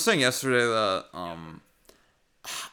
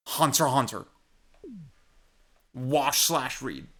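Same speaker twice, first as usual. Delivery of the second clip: YouTuber sponsor read. Pretend. Parody sponsor pitch to viewers.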